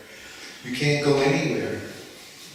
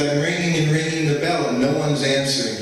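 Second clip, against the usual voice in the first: retold angry yell; 4 semitones higher, 4 dB louder than usual. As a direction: bark it out like a guru who was kept waiting. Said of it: "he's screaming at me".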